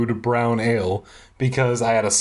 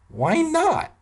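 mock confusion. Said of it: "I asked, confused".

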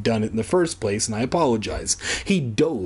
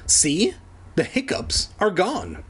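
declaring; 6 semitones higher than usual. Acted. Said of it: "Kermit declared to Evan".

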